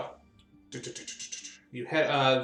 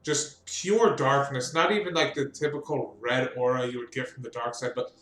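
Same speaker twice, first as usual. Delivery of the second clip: game master narration. Acted. GM sets the dark scene.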